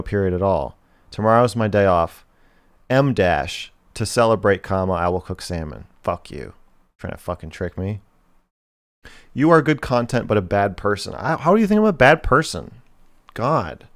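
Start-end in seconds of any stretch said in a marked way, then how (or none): 1.1-5.9 loud, emphatic dictation, punctuation named aloud; dictating. Shown as a demonstration. Dictating corrected sentence. 9.3-13.9 sudden high, loud outrage; indignant. Real, not acted. Reading donation then indignant.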